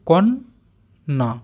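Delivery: কন্যা said slowly, syllable by syllable; slow careful. Shown as a demonstration. Teacher slowly sounding out কন্যা for pupils. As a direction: draw out কন্যা. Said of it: "আস্তে আস্তে উচ্চারণ করি".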